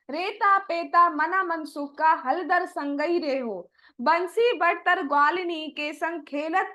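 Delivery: slow, drawn-out recital of the pada; devotional verse recitation. Acted. Preacher recites Surdas's verse to listeners, slowly. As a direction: let each line of the poem unfold slowly.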